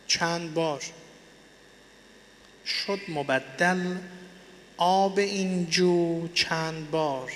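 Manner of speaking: verse read very slowly, phrase by phrase with long pauses; slow, spaced-out recitation for dictation. Shown as a demonstration. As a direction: spell the poem out slowly for note-takers.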